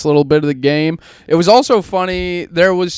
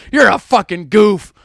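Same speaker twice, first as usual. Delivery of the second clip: high, loud name-calling; rising, emphatic angry rebuke; furious dad; 8 semitones higher, 4 dB louder than usual. Retold or imitated. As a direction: imitate a dad telling off his son. Acting out dad's tirade at son.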